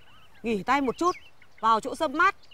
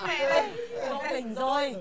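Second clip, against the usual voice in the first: tearful relief. Acted. Mother sees son wake up.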